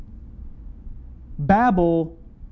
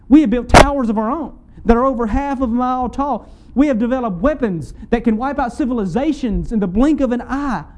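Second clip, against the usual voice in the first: higher-pitched, driving sermon build; impassioned preaching; 5 semitones higher than usual. Real, not acted. Preacher listing mankind's accomplishments to congregation, impassioned preaching. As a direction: pile up the achievements with rising conviction.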